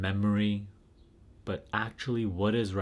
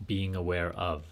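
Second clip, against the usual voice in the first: guided meditation; 4 dB quieter than usual. Real, not acted. Leads a guided self-inquiry.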